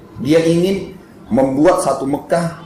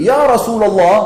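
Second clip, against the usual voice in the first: higher, louder drawn-out call; retold shout; 7 semitones higher, 5 dB louder, slower than usual. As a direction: call out slowly to be heard over people. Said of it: "sambil teriak".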